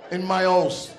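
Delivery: stern Jamaican dad. Retold or imitated. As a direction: lay down the law like a stern father, loud and slow. Dad laying down the law.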